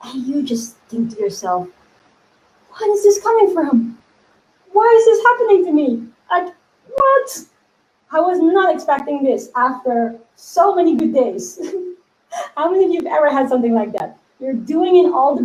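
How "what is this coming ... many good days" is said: why is this happening to me?; pitched-up mock outrage at bad luck; exasperated disbelief. Exasperated inner voice after setback.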